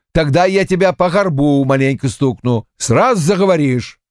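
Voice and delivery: impatient gruff demand; a touch of threatening impatience. A narrator's reading. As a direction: push him to spit it out. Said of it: "В явном нетерпении он проговорил".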